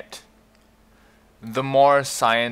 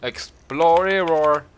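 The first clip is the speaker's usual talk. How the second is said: drawn-out, higher, louder mock roar; hammed-up roar breaking into a laugh; playful roaring; 5 semitones higher, 5 dB louder, slower than usual. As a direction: roll Explorer out into a silly roar. Playing with roar in the name.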